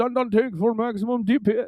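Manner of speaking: derisive, taunting mock imitation of a bossy voice. Gamer retells a loud teammate's call over voice chat: mocking a teammate's voice. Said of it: "I'm just making fun of him".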